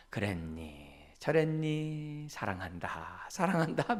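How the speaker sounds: soft, slow, never raising the tone; calm and gentle. Retold or imitated. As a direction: soothe the child patiently. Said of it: "톤이 올라간 적이 없어요". (톤을 올리지 않는 차분한 엄마 말투)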